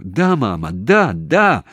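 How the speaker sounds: high, loud, urgent yeses; shouting. A narrator's reading. Daughter answers mother on a bad line, shouting. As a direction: shout so mama hears. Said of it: "кричала Таня".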